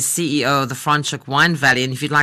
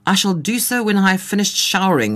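put-on German accent; 6 semitones higher than usual. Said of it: "In a strong German accent".

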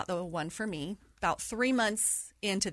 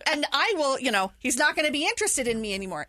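worked-up inner rant; 6 semitones higher, 6 dB louder than usual. Retold or imitated. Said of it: "And I'm thinking".

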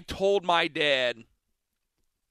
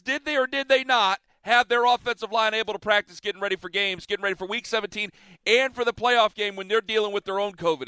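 heated argument; 4 semitones higher than usual. Real, not acted. Host arguing back at caller.

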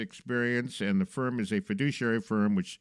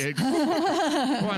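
laughing; 4 dB louder, much slower than usual. Real, not acted. Host laughing at the answer.

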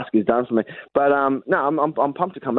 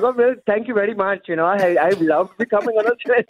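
grateful newcomer; 6 semitones higher than usual. Retold or imitated. Plays himself thanking a fooled caller.

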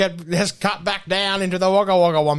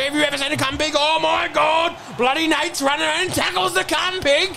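high, incredulous match commentary; worked-up commentator, pitch raised; excited play-by-play; 7 semitones higher than usual. Acted. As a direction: call it in disbelief.

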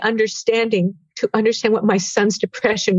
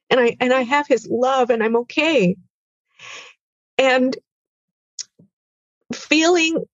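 fighting tears; 4 semitones higher than usual. Real, not acted.

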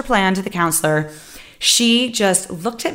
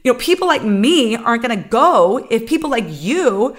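mock-stern scolding, pitched up; furious retort; 5 semitones higher than usual. Student scolding the laughing counselor, pitched-up anger. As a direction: put her in her place. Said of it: "I just got fierce and furious".

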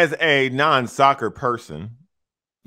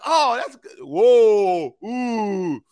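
mock excitement; 8 semitones higher, much slower than usual. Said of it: "I was watching like".

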